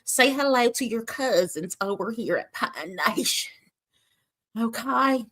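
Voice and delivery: hammed-up Southern hostess welcome; Southern accent. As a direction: greet the cousins like a Southern cooking host. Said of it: "that sound like Paula Deen".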